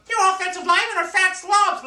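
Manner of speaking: high mocking voice; mocking critics. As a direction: sneer it like a know-it-all fan. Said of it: "you guys talking about".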